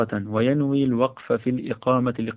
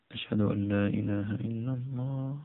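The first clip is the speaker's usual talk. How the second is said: much softer, held-back recital of the testimony; low voice; 11 dB quieter than usual. Shown as a demonstration. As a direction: say it low and soft, as if to yourself. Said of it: "بصوت منخفض". (بصوت منخفض خافت)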